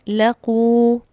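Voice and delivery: लकू said alone with a long final u; word read alone. Shown as a demonstration. Teacher reads the word separately for the class, firm and clear. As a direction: stretch the u in लकू firmly. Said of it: "इसको मैं अगर अलग-अलग पढ़ूँ".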